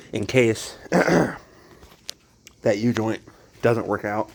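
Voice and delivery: hiccuping between words; with hiccups. Real, not acted. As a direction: talk through the hiccups. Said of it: "got the hiccups".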